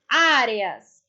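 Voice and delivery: "áreas" with a long, strong opening Á; stressed first syllable. Shown as a demonstration. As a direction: lean hard on the Á that starts "áreas". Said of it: "sílaba mais forte".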